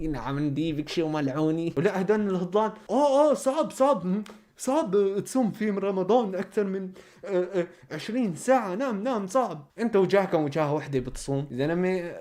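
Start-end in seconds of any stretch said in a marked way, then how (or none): 2.9-9.7 high whiny mocking voice; whiny mock imitation. Vlogger mocking the guests' complaint, high whiny voice. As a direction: whine it like the guests.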